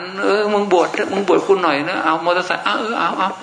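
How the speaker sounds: high, laughing coaxing parent; mock parent urging. Thai parents bribe their son to ordain, in a high laughing coaxing voice.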